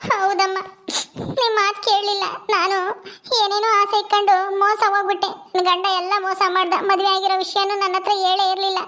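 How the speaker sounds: acted tearful confession to mother. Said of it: "ಅಳ್ಬೇಡ, ಸುಮ್ನಿರು".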